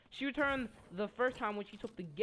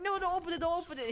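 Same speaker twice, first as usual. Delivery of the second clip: urgent shout; 8 semitones higher, faster than usual. Retold or imitated. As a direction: yell at him not to open it. Kids shouting at the boy.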